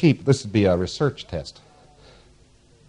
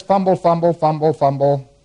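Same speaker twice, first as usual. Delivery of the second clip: fumbling for an answer; 5 semitones higher, 4 dB louder than usual. Acted. Lecturer acting out a patient searching for an answer, fumbling. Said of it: "And the P C says".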